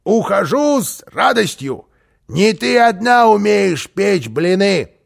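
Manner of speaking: high, loud parting shot; huffy defiance. Acted. Karlsson storming out past the housekeeper, defiant. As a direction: fling it back defiantly, ending slow.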